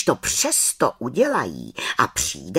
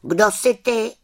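put-on high, loud child's question; boy asking; 10 semitones higher, 5 dB louder than usual. Tomáš asking the witch over his mug, high child voice. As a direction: ask like a curious boy. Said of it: "zeptal se Tomáš".

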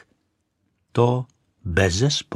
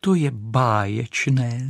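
exclaim; slower than usual. Acted. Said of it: "zvolala Raketa".

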